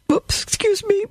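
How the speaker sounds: quick whispered apology; whispered oops. Real, not acted. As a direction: breathe it aside, off the reading. Whispered aside after hiccup.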